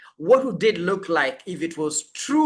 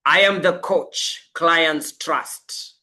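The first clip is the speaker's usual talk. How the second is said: spoken as identity; slower than usual. Shown as a demonstration. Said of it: "For instance".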